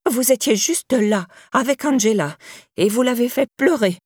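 put-on excited elderly accuser; accusing old woman. A narrator's reading. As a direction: insist as a nosy old neighbour. Old neighbour accusing Théo.

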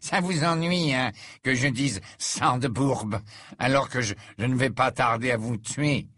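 mock Dumbledore with spite; taunting teen. Malfoy taunting.

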